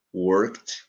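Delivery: "worked" with the ED said as T; final T sound. Shown as a demonstration. Teacher contrasts word endings for learners, "worked" ending in T. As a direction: end "worked" on a crisp K-T, no extra syllable. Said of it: "som de T".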